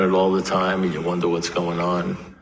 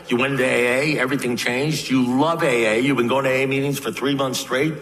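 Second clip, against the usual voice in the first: higher-pitched, disbelieving rebuttal; incredulous protest; 5 semitones higher than usual. Retold or imitated. Sponsor confronting his friend about leaving A A, incredulous. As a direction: argue back in mock disbelief.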